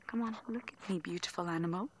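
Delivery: hushed, gentle murmur to an animal; soft coaxing. Real, not acted. Guide photographing a cheetah, coaxing it softly. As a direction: coax it softly to turn round.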